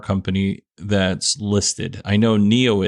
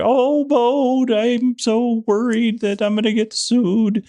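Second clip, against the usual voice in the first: much higher, slow, nervous whiny friend voice; scared Shaggy voice; slower than usual. Retold or imitated. Podcaster imitating his friend Jerry, high scared Shaggy voice. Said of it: "this is how he talks. He kinda talks like Shaggy when he's scared".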